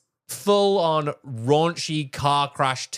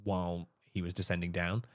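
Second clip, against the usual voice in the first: lower, subdued delivery; solemn account; 4 semitones lower, 4 dB quieter than usual. Real, not acted. Podcaster telling co-host of a wrestler's fatal fall, sombre. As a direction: report the tragedy gravely and quietly.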